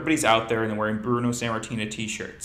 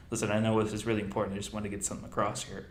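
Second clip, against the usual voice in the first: nervous Bobby; 4 dB quieter, much faster than usual. Retold or imitated. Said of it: "what if Bobby was like".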